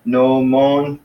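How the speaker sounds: "nomon" held out as no-mon; syllable by syllable. Shown as a demonstration. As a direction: sound out "nomon" in two even syllables. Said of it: "two syllables".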